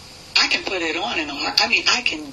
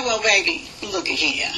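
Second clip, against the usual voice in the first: New York smooth talk. Pretend. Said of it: "the real New York accent".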